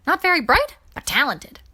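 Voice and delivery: wry joke. Acted. Coran joking about his uncle.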